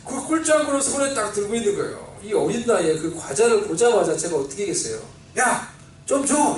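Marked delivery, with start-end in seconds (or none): 5.4-6.6 put-on slow, drawn-out childish plea for a snack; eager kid begging. Little boy begging a friend for a snack, slow eager plea. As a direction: stretch it out like a greedy five-year-old. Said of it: "이렇게 했죠".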